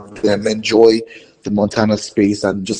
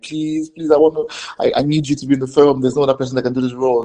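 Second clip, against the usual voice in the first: begging; 3 semitones higher, faster than usual. Retold or imitated. Director begging actress to join the film, pleading. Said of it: "I was begging".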